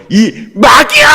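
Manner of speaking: high, loud shout of rebuke. Shown as a demonstration. Preacher leading the crowd in rebuking Peter, shouting. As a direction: shout it out at the devil. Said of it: "다시 한번요".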